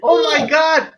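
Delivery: complaining American tourist; American tourist accent. Acted. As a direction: gripe in an exaggerated American accent. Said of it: "the worst is American tourists".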